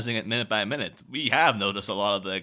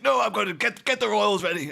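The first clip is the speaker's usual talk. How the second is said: mock Alfred retort; 9 semitones higher than usual.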